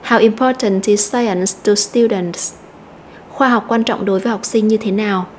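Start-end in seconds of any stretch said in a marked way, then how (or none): 0.1-2.5 slow model question stressing "How", "important", "science", "students"; sentence stress. Shown as a demonstration. Teacher rereads the full example for students, stressed content words. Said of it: "Chúng ta nhấn mạnh từ how".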